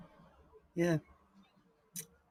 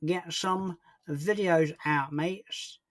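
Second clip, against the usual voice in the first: slow, stretched-out mock voice; put-on, drawn-out echo of the answer; silly put-on voice; 2 semitones higher, much slower than usual. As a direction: drag each word out playfully. Playful put-on repeat of answer.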